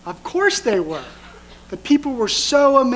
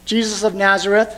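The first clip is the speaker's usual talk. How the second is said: demon voice. Acted. Preacher voicing the demon confronting Jesus, mildly menacing. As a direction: read the demon's challenge with mild menace. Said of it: "the demon says".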